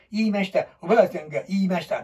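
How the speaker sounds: fast, flat robotic read; mock monotone reading. Shown as a demonstration. Teacher mocking students' stiff reading, robotic monotone. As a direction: rattle it off like a machine. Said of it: "棒、棒、棒読みで".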